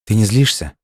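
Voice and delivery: tentative, incredulous lift in pitch; disbelieving. A narrator's reading. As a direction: ask it as if you can't believe it. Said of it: "не поверила девушка".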